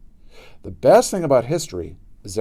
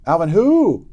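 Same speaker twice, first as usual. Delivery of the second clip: dismissive; 7 semitones higher, 6 dB louder, slower than usual. Acted. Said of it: "asked Pinky".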